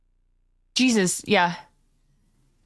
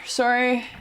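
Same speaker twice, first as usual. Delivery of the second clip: accidental Canadian vowel on "Sorry"; Canadian accent; 2 semitones higher than usual. Real, not acted. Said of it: "I just spoke Canadian".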